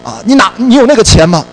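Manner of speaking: hammed-up nurse telling him off; scolding nurse. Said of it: "被护士骂了一顿". (模仿护士骂人，声音高而响)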